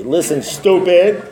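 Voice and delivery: very slow, deliberate mock scolding; affectionate insult. Sponsor addressing his sponsee, slow fond put-down. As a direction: draw each word out to get his attention. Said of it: "He used to call me that affectionately".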